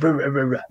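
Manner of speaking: mock dog barks; imitated barking. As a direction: bark it out as a joking imitation. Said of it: "he probably barked it".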